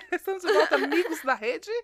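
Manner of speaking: football announcer. Shown as a demonstration. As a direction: hail the viewers like a TV sportscaster. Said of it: "O narrador de futebol". (narrador de futebol)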